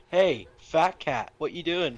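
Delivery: loud, slow, high goofy call; Bimp voice. Retold or imitated. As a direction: interrupt cheekily. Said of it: "I can just imagine".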